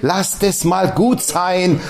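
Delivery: slow, soothing lass das mal gut sein; calming wife. Retold or imitated. Wife calming her heated husband, slow soothing. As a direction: settle him down gently and slowly. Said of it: "meine Frau gesagt".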